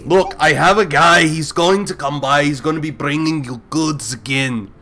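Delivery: lightly voiced Arnold coaching the party. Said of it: "I really wanna do the voice".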